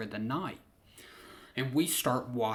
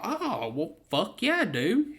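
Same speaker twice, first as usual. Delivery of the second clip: excited; 7 semitones higher, 3 dB louder than usual. Retold or imitated. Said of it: "I was like".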